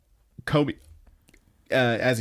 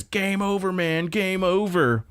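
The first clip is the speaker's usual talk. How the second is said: Retsuko's anguished cry; 9 semitones higher, slower than usual. Retold or imitated. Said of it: "And she says".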